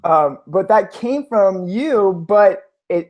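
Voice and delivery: laughing through the words; amused giggle as he answers. Real, not acted. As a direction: still laughing, slowly. Laughing at urinate joke.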